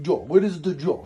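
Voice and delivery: a rough imitation of a French-speaking Senegalese chef's accent; mock French accent. Tattoo artist imitating his old Senegalese chef, a mock French accent. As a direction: play the French chef's accent a little broadly. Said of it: "His accents are horrible".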